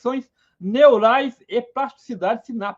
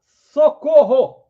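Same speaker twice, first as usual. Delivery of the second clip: slow, drawn-out and louder call for help; mock cry for help; 3 semitones higher, 7 dB louder, much slower than usual. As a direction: shout for help to the group. Alerting the group to danger. (pedido de socorro encenado)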